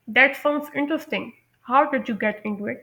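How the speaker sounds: slow, carefully spaced English; slow model sentence. Shown as a demonstration. Teacher slowly modelling a follow-up question. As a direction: spell it out slowly for learners. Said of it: "जैसे ये, अ, sentence है".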